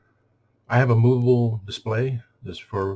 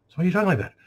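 higher-pitched mock questioner; questioning customer; 8 semitones higher, much faster than usual. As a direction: imitate a puzzled complainer, pitched up. Acts out someone questioning his sarcasm.

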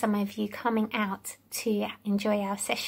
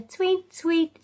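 bird tweet; 5 semitones higher than usual. Shown as a demonstration. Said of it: "sounds of the animals".

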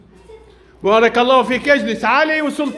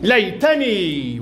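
slow model word; 4 semitones lower, much slower than usual. Shown as a demonstration. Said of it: "pupil says ليتني".

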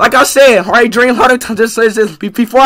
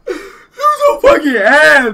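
crying; slower than usual. Real, not acted. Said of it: "Are you actually crying?".

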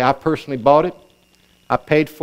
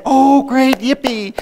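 high, louder whoop trailing into a cheer; mock-excited celebration, pitched up; 10 semitones higher, 3 dB louder, slower than usual. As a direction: act out a thrilled recipient. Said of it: "he might get excited and say".

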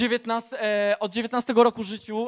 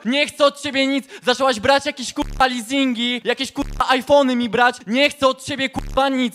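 heated, raised pitch, cursing tirade; angry rant; 2 semitones higher than usual. Real, not acted. Man snaps at the caller who says he fathered her child, furious. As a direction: push her away with every curse. Ex rants at woman claiming pregnancy.

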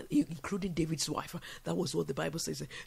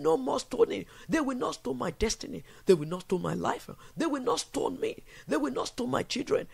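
fiery decree; 5 semitones higher than usual. Shown as a demonstration. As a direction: proclaim it over your life. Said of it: "I said".

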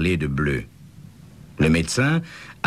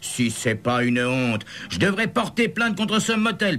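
indignant roar; 13 semitones higher than usual. A narrator's reading. Scene: the boy's mother scolds the officer, high indignant outburst. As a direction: snap back like an offended mother. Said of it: "rugit la mère du gamin".

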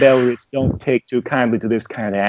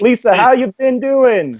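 put-on southern accent; 10 semitones higher, 4 dB louder than usual. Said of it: "I don't know how to do a southern".

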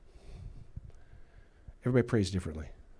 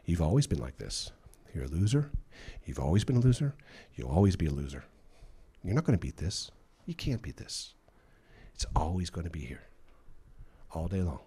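condemning voice; 3 semitones lower than usual. Shown as a demonstration. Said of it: "Condemnation sounds like this".

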